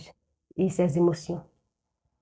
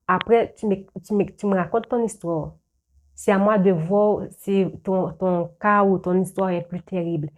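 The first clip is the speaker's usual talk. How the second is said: upset confider. Retold or imitated. Voicing the confiding person.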